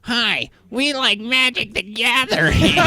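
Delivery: high, slow, sing-song greeting; cheery crowd voice. Retold or imitated. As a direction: chirp it like a welcoming cult. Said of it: "And they're like".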